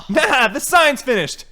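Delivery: high, loud, slow goofy laughing delivery; Tommy Wiseau. Acted. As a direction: bracket it with an odd forced laugh. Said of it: "like, a Tommy Wiseau, The Room-esque laugh".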